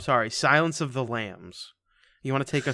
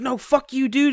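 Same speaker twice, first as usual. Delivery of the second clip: high, indignant mock refusal; 11 semitones higher, 5 dB louder than usual. Retelling a friend who refuses to enter, high mock refusal.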